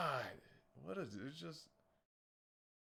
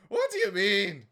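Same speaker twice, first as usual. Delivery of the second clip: loud, higher mock snarl; louder mock anger; mock aggressive; 5 semitones higher, 9 dB louder than usual. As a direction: bark it back in a put-on tough voice. Mocking her aggressive tone.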